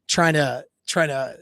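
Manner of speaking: halting, repeating as the words escape; fumbling for words. Acted. Woman didn't know what to say to Jake, fumbling. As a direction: stumble and trail into filler. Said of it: "she's kind of fumbled over her words".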